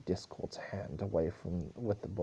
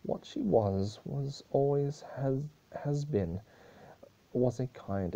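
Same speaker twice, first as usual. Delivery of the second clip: whisper; 4 semitones higher, 3 dB louder than usual. Acted. Celestia's eulogy, whispered line.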